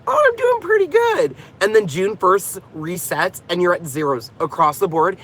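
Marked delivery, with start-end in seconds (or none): 0.1-1.4 imitating smug relief. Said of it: "you're like".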